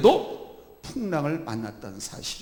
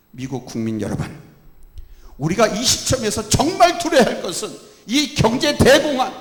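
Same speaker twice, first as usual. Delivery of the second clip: higher, louder oratory; Roosevelt speech; 4 semitones higher, 6 dB louder than usual. Acted. Roosevelt addresses the American people in a rousing speech. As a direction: deliver it like a president addressing the nation. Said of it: "국민들에게 이런 연설을 했습니다".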